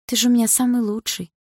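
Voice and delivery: put-on loving girlfriend's coaxing; tender coaxing. A narrator's reading. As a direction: flatter him sweetly. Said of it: "прошептала она".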